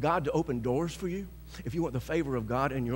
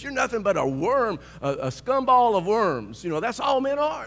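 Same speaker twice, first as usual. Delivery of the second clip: a hint of a sneering man, louder; mock scornful man; 5 semitones higher, 5 dB louder than usual. Preacher imitating the man who insulted him, mild sneer.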